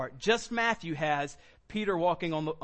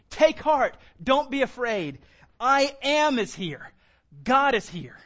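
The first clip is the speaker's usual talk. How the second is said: loud, raised preaching voice; emphatic proclamation; 5 semitones higher, 6 dB louder, slower than usual. Acted. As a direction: proclaim it in short, forceful phrases. Preacher proclaims the quoted reassurance.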